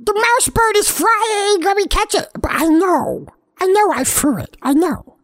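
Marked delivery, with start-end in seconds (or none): 0.0-2.3 a cat who sees the toy fly; thrilled shout at a flying toy; excited. Acted. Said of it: "for half a second I'm like".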